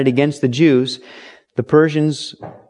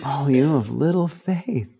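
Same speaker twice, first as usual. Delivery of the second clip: calm rebuke; 6 dB quieter than usual. Retold or imitated. Jesus answers calmly.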